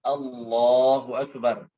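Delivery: "Allahu Akbar" said simply, slightly slow; just say "Allahu Akbar" normally; plain takbir. Shown as a demonstration. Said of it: "Biasa saja". (takbir biasa saja)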